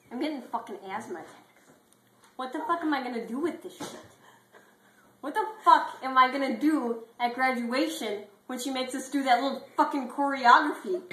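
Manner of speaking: building from a grumble to a loud, high outburst; T-Bone freaking out to Clifford, building to yelling; panicked rant. Acted. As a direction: spiral into a shouting panic. T-Bone panics about graduation.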